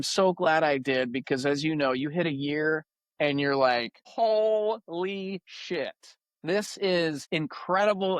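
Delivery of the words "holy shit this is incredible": slow, drawn-out mock amazement, higher; amazed disbelief. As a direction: let the realisation sink in slowly. Retold amazed reaction after sobriety.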